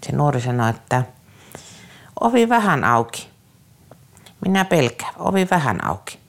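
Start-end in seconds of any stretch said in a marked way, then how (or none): 2.2-6.2 put-on high, pleading child's voice in broken Finnish; frightened child pleading. Youth begging the adult to leave the door open, high and frightened. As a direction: beg like a scared kid for the open door.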